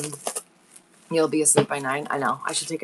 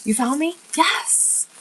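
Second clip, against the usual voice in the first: high breathy yes; delighted hushed cheer; excited whisper-cheer; 10 semitones higher, 4 dB louder, slower than usual. Real, not acted. Mother greeting son who found her, high hushed cheer.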